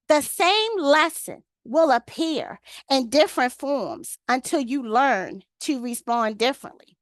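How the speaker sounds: very slow, emphatic repeat of a quote; spaced out phrase by phrase, landing on key words. Real, not acted. Repeating the quote for the ladies to absorb, very slowly. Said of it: "I'm gonna say it slow".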